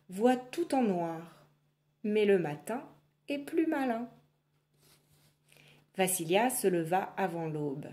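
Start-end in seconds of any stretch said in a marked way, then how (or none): 0.1-4.1 slow, higher proverb voice; lightly voiced doll reciting; wise little doll. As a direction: recite the saying kindly. Doll's proverb.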